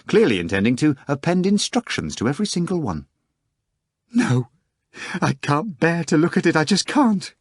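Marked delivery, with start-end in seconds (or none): 4.1-7.3 crying out. A narrator's reading. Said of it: "Anna Richardovna cried".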